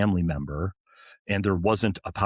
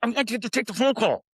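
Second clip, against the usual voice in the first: indignant lecture; 11 semitones higher, faster than usual. Retold or imitated. Scolding the lieutenant, retold.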